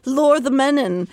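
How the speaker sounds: high, slow, crooning siren voice; lilting seductive voice. Pretend. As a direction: croon it sweetly to lure men. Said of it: "lilting tones".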